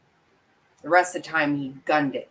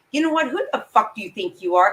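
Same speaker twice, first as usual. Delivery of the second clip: high, louder sudden blow-up; angry outburst; 3 semitones higher, 4 dB louder, faster than usual. Real, not acted. Viewer exploding at the defendant's excuse, higher and louder. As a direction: snap back at him, fed up.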